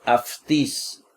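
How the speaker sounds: "aftis" with an f before the t; au read as af. Shown as a demonstration. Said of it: "se lee como F". ("aftis" con au pronunciado como af)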